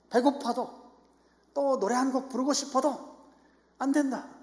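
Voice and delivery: high, loud, firm decree from the pulpit; emphatic preaching. Acted. Preacher warning the church no feast with empty seats, emphatic preaching.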